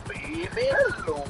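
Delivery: high, goofy sing-song host; silly high voice. Acted. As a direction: ham it up in a squeaky voice.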